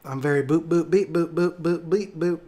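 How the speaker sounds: boop beep noises, lightly voiced. Shown as a demonstration. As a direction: toss off the boops casually. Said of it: "I do make those noises out loud".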